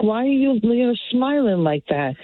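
mildly suspicious retold question, pitched high. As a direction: quote yourself quizzing someone, voice lifted.

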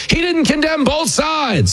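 high, slow, whiny mockery; mocking quote. Host mocking the old claim, high whiny voice. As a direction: sneer the slogan in a silly voice. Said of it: "Remember the old".

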